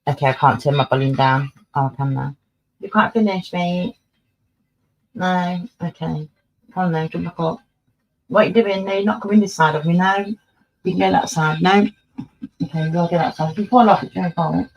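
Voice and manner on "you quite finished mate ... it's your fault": talking to the cat. Real, not acted. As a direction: coax the cat like a fussy owner.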